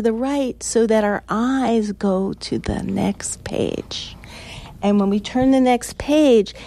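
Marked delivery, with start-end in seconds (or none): 2.3-4.2 hushed and slow; slow whisper. Acted. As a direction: breathe it out slowly. Hushed slow reading cue.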